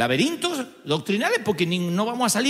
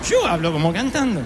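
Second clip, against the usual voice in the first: put-on incredulous echo in own accent; mock incredulity. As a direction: throw the remark back in disbelief. Incredulous reply to the Mexican's remark.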